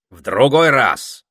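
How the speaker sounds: emphatic brush-off; cutting him off. A narrator's reading. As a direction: stop the chatterer firmly. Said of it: "остановил его попугай".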